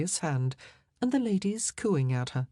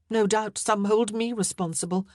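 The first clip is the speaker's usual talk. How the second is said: higher-pitched, controlled reply; mild unease in a raised voice; guarded queen; 5 semitones higher than usual. Acted. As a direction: answer while hiding your dread. Queen answers, hiding inward dread.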